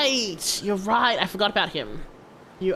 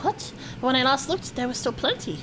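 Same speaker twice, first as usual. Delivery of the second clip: sudden high What, then puzzled; startled, then checking memory; surprised NPC; 7 semitones higher than usual. Acted. Reads NPC dialogue aloud.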